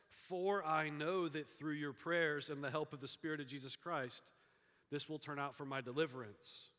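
confident, joyful scripture reading; joyful declaration with full voice. Shown as a demonstration. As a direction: read it brightly and firmly, as good news. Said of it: "it is a tone of joy".

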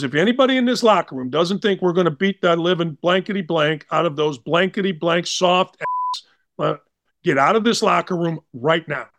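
imitating a coach's understated warning; tough, stern, matter-of-fact. Coach warning players in the locker room, tough and stern. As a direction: deliver the threat firmly, no flamboyance. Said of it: "He said it tough, stern, matter-of-factly".

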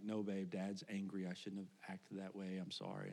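low, softening mock-retold apology; subdued apology. Dad apologizing to his daughter from the bathroom, subdued.

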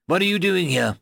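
high-pitched, forceful question; demanding. A narrator's reading. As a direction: demand an explanation from the intruder. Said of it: "demanded Ben".

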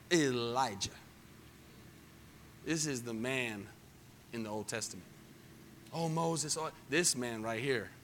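low, soft reverent hush; hushed awe. Real, not acted. Preacher hushing the congregation about Elijah, reverent. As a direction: drop to a whisper of awe.

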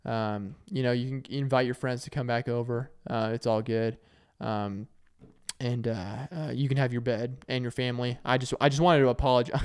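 a hint of mom making peace after cooling down; apologetic mom. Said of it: "she comes on back in and goes".

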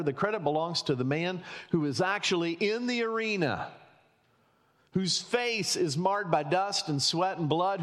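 rousing quotation recital. Acted. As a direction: recite it like a stirring speech.

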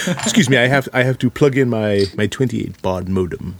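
mock British accent; a put-out Brit fussing over old tech. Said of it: "with a British accent".

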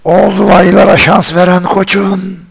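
dramatic poetry recital. Pretend. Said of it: "çok efsane şiir okuyan adamlar vardır ya böyle".

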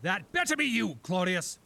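shrill raving king voice; high mad king. Acted. Mad king calls through door.

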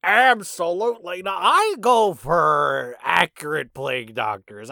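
high, loud emphatic refusal; mock outrage. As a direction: declare it with hammed-up indignation, stretched out. Mock outrage at half-point claim.

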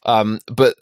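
tired, gravelly rasp; hoarse after early mornings. Real, not acted. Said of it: "you can hear it in my voice. ... so gravelly".

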